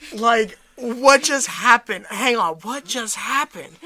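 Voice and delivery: slow, stunned double-take; half-laughing mock disbelief; retold shock. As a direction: act out baffled shock, drawing it out. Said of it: "just in shock".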